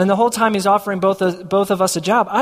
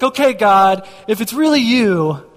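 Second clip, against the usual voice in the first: slightly louder, put-on haggling with God; mock bargaining prayer; 4 dB louder than usual. Testing God after getting his sign, mock bargaining. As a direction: start the bargaining over, a little pushier. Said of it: "I was like".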